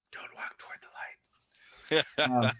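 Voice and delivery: slow, unvoiced-breath whisper. Player whispers to a dying companion, slow whisper. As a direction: whisper it slowly, close to the ear. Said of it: "I'll whisper in his dead ear".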